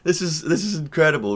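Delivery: high-pitched, drawn-out amazement; floored, voice shooting way up; stunned disbelief. Retold or imitated. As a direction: react high and incredulous, stretching the words. His stunned reaction to the cop.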